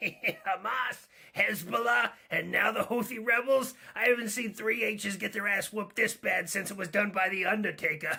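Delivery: high, badly done cartoon sailor voice. Joking about the news on a show known for terrible accents, do a bad Popeye voice. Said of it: "I know you're going for Popeye with that one".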